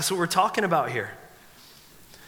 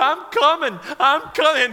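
higher and louder, rushing forward to the altar; eager response; 9 semitones higher, 4 dB louder than usual. Retold or imitated. Fired-up kid at the altar call, eager and loud. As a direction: call out that you're coming. Crying kids running forward.

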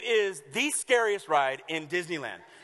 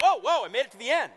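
louder, fast and relieved; relieved whoa; 5 semitones higher, 7 dB louder, faster than usual. Retold or imitated. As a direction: burst out with mock relief. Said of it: "it's like".

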